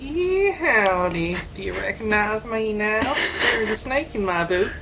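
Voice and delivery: put-on American cowboy twang; American accent. Australian host showing co-host he can be recognised, mock American accent. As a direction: play at being an American cowboy. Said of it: "trying to do an American accent".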